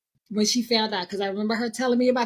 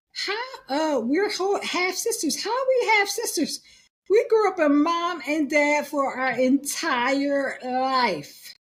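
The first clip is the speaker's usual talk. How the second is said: higher-pitched, bewildered retold protest; incredulous protest; 3 semitones higher, slower than usual. Friend retelling her shock at being half sisters, incredulous protest. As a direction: start high in disbelief, then draw out the last words.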